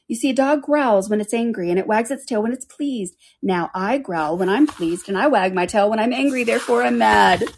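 lightly voiced cat making its case; Cheshire Cat. The cat proves to Alice that it is mad, lightly performed. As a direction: build a lilting argument to an emphatic close.

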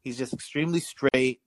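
stiff, proper nerdy voice; Carlton voice. Acted. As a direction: talk like a buttoned-up preppy nerd. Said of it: "Carlton voice".

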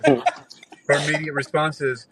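slowed, laughing through the setup; can't get the words out for laughing. Real, not acted. Retelling her reply to friends, laughing slowly.

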